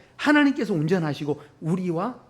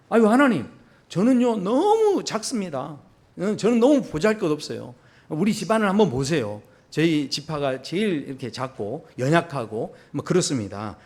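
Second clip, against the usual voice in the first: timid Gideon. Acted. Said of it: "그렇게 이야기하죠".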